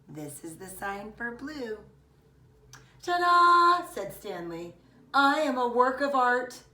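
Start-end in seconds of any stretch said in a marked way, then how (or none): 3.0-3.9 loud, high triumphant ta-da; excited ta-da. Acted. Boy showing off his crazy hair, loud and triumphant. 5.1-6.6 loud, high, puffed-up boast; proud boy voice. Acted. Boy admiring his own hair, loud and proud.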